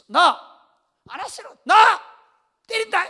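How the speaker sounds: loud, high shouted threat; acted scolding parent. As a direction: re-enact yelling at a stubborn child. Acted parent threatening child with rod.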